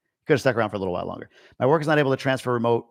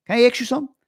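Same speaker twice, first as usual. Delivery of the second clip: Long Island accent pushed much higher, cartoonish; exaggerated Long Island accent; 13 semitones higher, 4 dB louder, much faster than usual. Mocking his fourth-grade self to the chat, in an exaggerated Long Island accent. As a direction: ham up the Long Island kid voice. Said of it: "That's what I sounded like".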